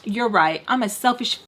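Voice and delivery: dry, understated sarcasm; mock self-blame in an even voice; sarcastic agreement. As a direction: concede everything without meaning a word. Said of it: "not picking up on the sarcasm".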